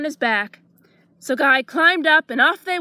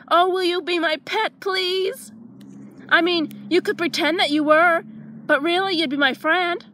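begging; 3 semitones higher than usual. Acted. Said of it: "he begged".

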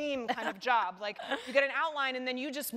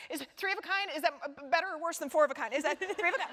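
rushed, higher, nervous questions about the cards; anxious panic; 5 semitones higher, much faster than usual. Retold or imitated. Nervous poker player at Larry's game, panicked fast questions. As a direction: gabble it like you're panicking at the poker table. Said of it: "an anxiety state that's like".

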